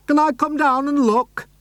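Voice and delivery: eager neighbour shouting down. Acted. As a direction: call down eagerly. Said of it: "Mister Hoppy shouted back".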